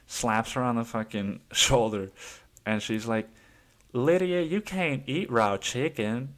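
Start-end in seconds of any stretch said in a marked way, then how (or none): 3.9-6.3 higher, slower, louder incredulous scold; mock-scold her friend slowly, disbelieving. Friend telling Lydia off about raw chicken, higher and slower.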